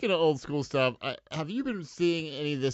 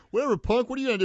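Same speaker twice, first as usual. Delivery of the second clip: put-on taunting street kid; 12 semitones higher, 6 dB louder, much faster than usual. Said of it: "some street kids are like".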